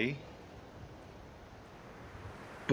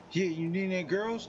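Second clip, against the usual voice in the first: gang member; 4 semitones higher than usual. Retold or imitated. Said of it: "gang members like".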